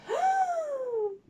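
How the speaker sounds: high, drawn-out theatrical gasp; mock-shocked gasp. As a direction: gasp in pretend horror. Shock at the missing rainbow. (hoquet d'horreur exagéré)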